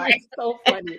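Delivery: laughing through the words; real amused laugh while talking; bursting into a laugh. Real, not acted. Laughing at husband story.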